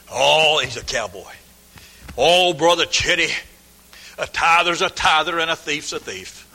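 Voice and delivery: slow drawled retort; friend's reply. Retold or imitated. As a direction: lay down the rule plainly. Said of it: "And I said".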